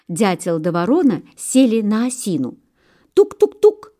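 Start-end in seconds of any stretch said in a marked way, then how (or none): 3.1-3.9 high, loud rapid knocks; woodpecker knocking. A narrator's reading. Woodpecker pecking at the bark, high staccato knocking. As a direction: imitate a pecking beak in a high voice. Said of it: "застучал дятел клювом по коре".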